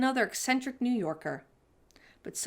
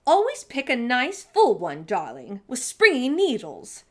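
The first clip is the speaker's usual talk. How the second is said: louder, genteel aunt instructing; grand auntie; 3 semitones higher, 6 dB louder than usual. Acted. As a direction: lecture like a glamorous great aunt. Auntie Claus voiced instructing.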